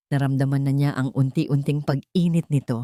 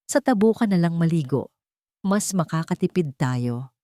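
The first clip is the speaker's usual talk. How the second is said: stern mother-in-law laying down the rule; weight on every word. A narrator's reading. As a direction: hand down the order word by word. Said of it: "na may diin sa bawat salita".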